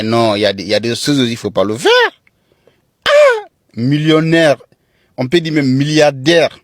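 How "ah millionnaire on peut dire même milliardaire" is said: excited. Real, not acted. Excited exclamation about wealth.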